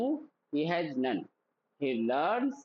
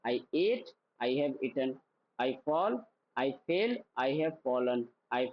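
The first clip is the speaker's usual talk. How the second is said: drill repeat; 5 semitones lower, much slower than usual. Shown as a demonstration. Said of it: "मेरे साथ बोलना".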